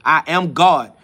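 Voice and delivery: loud, emphatic battle cry; war cry. Real, not acted. Telling viewers this is his cry, a war cry. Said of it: "That's my war cry, my battle cry".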